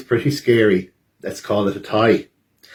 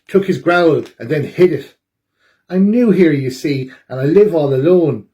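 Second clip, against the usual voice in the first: lonely Boris; 3 semitones higher than usual. Acted. Boris explains to everyone why he stole the growl, lightly sad. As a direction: plead to be understood. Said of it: "Boris cries".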